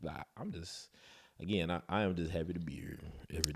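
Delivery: unvoiced, fast aside; whispered aside. Real, not acted. Husband whispering his happiness to his wife, fast. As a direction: murmur it quickly under the breath.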